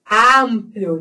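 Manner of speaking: "Amplio" with open oral a; open vowel. Shown as a demonstration. Teacher showing Spanish vowels, open a. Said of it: "Então, sempre aberto".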